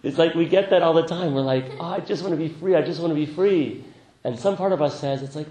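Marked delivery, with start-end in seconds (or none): 1.8-3.8 high, loud acted longing; mock pleading. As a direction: plead like a hammed-up seeker. Acting out our plea for freedom.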